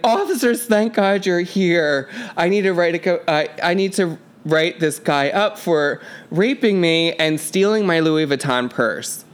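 lightly voiced woman pleading to the police; mock complainant. Passenger reporting the narrator to arriving officers, mock pleading. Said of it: "and she's like".

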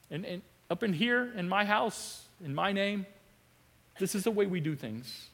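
gentle Jesus voice. Retold or imitated. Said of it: "led by Jesus who says".

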